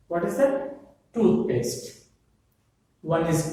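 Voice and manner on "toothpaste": "Toothpaste" stressed on TOOTH; first-word stress. Shown as a demonstration. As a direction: lean on "tooth", let "paste" fall. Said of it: "First syllable".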